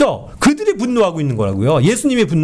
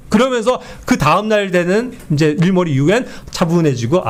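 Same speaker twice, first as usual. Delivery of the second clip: normal talking voice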